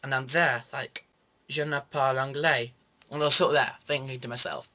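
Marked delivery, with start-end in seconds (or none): 1.5-2.7 fake French. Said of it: "he spoke louder".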